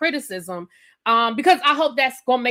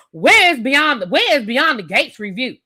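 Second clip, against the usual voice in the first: blunt, demanding question, louder; rude reading; 2 semitones higher, 5 dB louder than usual. Shown as a demonstration. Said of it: "You hear how I read that in my head".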